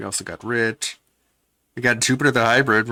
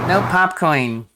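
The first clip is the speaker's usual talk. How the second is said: slow, much higher squeaky mockery; chipmunk voice; 8 semitones higher, 7 dB louder than usual. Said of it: "with his artificially pitched up voice".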